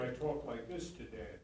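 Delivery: supported voice aimed at the back row; projected stage voice. Shown as a demonstration. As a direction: speak to Dan but reach the balcony. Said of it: "In the theater".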